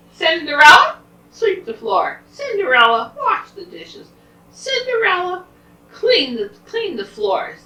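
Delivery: high, loud, nagging commands; bossy stepfamily. Acted. Stepmother and stepsisters order Cinderella about, high bossy shout.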